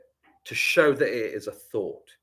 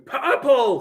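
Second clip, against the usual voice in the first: higher, drawn-out call; sudden call-out; 12 semitones higher, 4 dB louder than usual. Real, not acted. Teacher blurting out a word mid-lesson, sudden call-out. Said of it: "Somebody shout purple".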